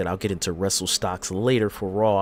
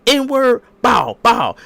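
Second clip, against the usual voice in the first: much higher and louder taunt; mock shout; 13 semitones higher, 10 dB louder, much slower than usual. Host imitating Roman Reigns taunting Seth Rollins, a loud high yell. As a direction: bark it out like a taunting brawler.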